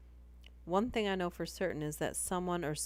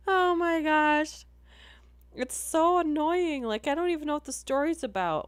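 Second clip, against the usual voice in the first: laughing; 10 semitones higher, 8 dB louder than usual. Real, not acted. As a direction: still cracking up. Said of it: "laughing fit continues".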